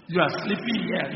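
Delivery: captain scolding Jonah, indignant; angry accusation. Acted. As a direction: accuse him for endangering everyone.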